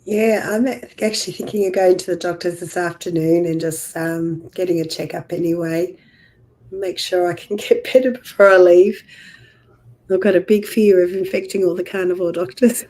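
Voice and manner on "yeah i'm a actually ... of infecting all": hoarse, nearly lost voice; rough hoarse voice from the flu. Real, not acted. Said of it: "I hope you feel better than you sound".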